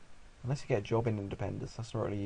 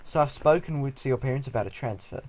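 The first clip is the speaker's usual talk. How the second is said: put-on doctor voice; 2 semitones higher, 5 dB louder than usual. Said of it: "oh wait, this is the doctor".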